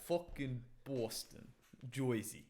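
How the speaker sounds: drawn-out mock Boston accent; rough guess at a Boston or Jersey accent. Shown as a demonstration. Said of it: "a Boston accent".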